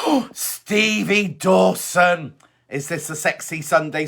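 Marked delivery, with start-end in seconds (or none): 0.1-2.3 gasp, then very slow, drawn-out name; thrilled, stretched-out hello; delighted greeting. Real, not acted. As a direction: savour the name after a big gasp. Delighted greeting on spotting a friend.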